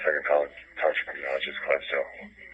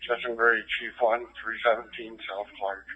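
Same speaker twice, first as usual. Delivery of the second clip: terse radio update; 4 semitones higher, 3 dB louder than usual. Real, not acted. Chief radioing location.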